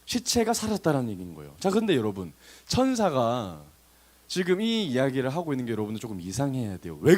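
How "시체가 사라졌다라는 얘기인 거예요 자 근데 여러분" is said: normal talking voice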